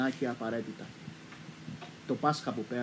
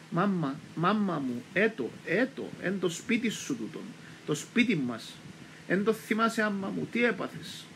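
slow, higher, on the verge of tears; tearful pleading; 5 semitones higher than usual. Retold or imitated. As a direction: gently beg her to remember, tearful. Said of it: "Έβαλε τα κλάματα η μάνα μου".

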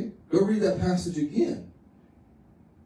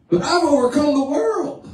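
voice breaking; 9 semitones higher, 4 dB louder than usual. Real, not acted. Preaching Jesus' words, voice breaking.

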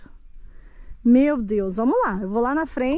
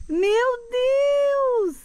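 shocked gasp; 10 semitones higher than usual. Real, not acted. Shocked at the mud pit.

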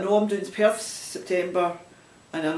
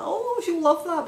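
quoting her friend; 12 semitones higher than usual. Retold or imitated. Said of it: "and she's like".

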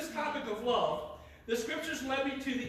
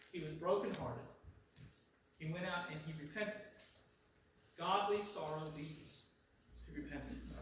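low, quiet, heavy pauses; sorrowful hush; 5 semitones lower, 7 dB quieter than usual. A narrator's reading. Preacher telling of Peter's bitter repentance, subdued. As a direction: let each phrase sink softly.

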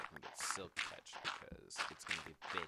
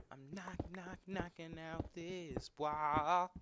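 excited; 9 semitones higher, 7 dB louder, much slower than usual. Real, not acted. Announcing wall demolition playfully.

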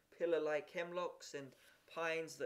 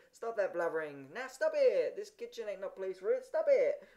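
exasperated cook losing her temper; angry scolding; 3 semitones higher, 7 dB louder than usual. A narrator's reading. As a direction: scold a crying child, erupting on the commands. Cook scolds the crying boy.

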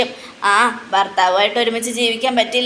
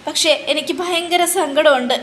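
higher-pitched tearful complaint, acted; hammed-up sorrow, pitched up; mock crying; 5 semitones higher than usual. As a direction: play an overdone weepy lament. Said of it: "മൂങ്ങ ഭയങ്കരമായിട്ട് കരയുക".

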